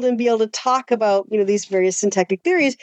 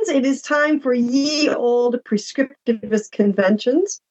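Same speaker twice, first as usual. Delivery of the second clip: hammy stage actor; slower than usual. Acted. Retake of mock intro.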